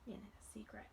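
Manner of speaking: hushed, secretive whisper; soft conspiratorial whisper. A narrator's reading. Narrator hushes about the secret.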